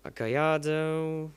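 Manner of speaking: slow mock-British car name; drawn-out, slightly British pronunciation; British accent. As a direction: say it slowly with a light British accent. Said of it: "pronouncing that with a British accent".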